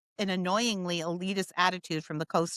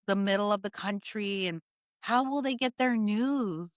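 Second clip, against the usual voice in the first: mock calm professor. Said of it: "this tone of voice that is just so, calm, professorial tone".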